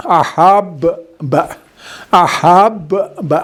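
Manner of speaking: احب با with the ب doubled and held, said slowly; slow tajweed demo of احب با. Shown as a demonstration. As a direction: draw out the ب in احب با as a doubled, stressed letter. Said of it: "لیکن ملا کے".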